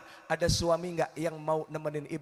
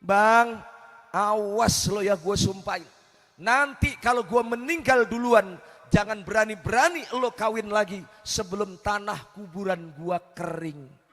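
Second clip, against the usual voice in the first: a hint of a scolding wife's threat, the opening called out loud; threatening wife; 3 dB louder than usual. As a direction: warn him like a bossy wife. Wife's threat voiced in story. (istri mengancam suaminya dengan nada galak)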